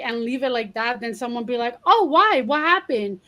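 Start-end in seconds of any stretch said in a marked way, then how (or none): 1.9-3.2 higher, prying mock questions; pry eagerly like a nosy friend.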